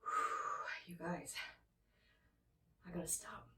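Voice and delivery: hiccuping between words; speech broken by hiccups. Real, not acted. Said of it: "now I got the hiccups".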